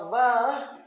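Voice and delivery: "bah" drawn out, tailing upward; long, coaxing "bah"; begging "bah". Shown as a demonstration. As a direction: stretch "bah" as if begging a parent. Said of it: "memberi kesan kita mengemis".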